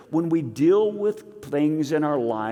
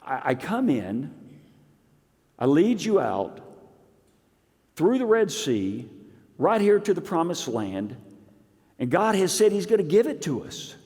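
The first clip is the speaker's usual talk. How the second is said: exasperated Moses; 4 semitones higher than usual. Retold or imitated. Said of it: "what Moses wanted to say".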